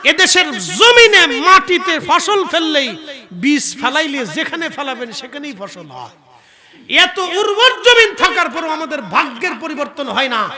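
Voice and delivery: high, very loud, relentless denunciation; full-force preaching. Real, not acted. Preacher denounces unjust judgements in the country, impassioned shout. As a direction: shout each charge like a fiery preacher.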